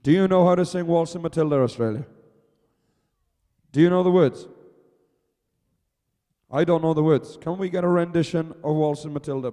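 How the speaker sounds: excited crowd rouser; rousing crowd. Real, not acted. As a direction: whip up the fans. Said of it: "rousing the crowd".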